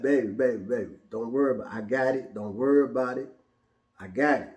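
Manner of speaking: put-on calm the scared kids down; hushed motherly comfort; soothing mom.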